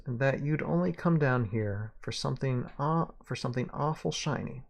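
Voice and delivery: lightly Southern gunslinger; Southern accent. Acted. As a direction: needle him with a slight Southern twang. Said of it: "I can do the accent".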